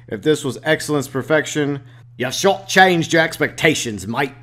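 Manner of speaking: a bad, hammy Australian accent. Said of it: "My terrible Australian accents".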